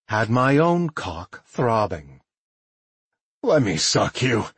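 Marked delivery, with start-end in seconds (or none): 3.4-4.5 coaxing, wheedling plea. A narrator's reading. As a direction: coax them into saying yes. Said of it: "he wheedled".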